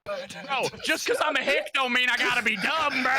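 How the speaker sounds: hammed-up hick, offended; mock hick voice. Mock hick defends himself.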